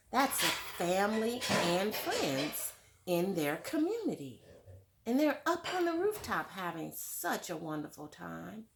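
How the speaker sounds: lively storybook read-aloud; reading to children. A narrator's reading. Teacher reading a picture book to children, lively. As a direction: read it like story time for little kids.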